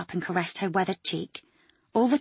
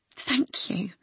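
whisper; 3 semitones higher than usual. Acted. Quoting the dying words.

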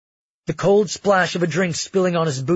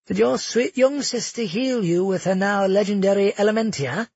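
higher, sneering nobleman's voice; gloating villain Curtis; 5 semitones higher than usual. Acted. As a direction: savor every word of the taunt. Curtis mocks Magnus.

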